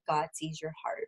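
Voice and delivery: soft, sincere quoted reassurance; honest. Retold or imitated. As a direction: say it quietly and honestly, as retold. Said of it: "very honestly, he looked at me".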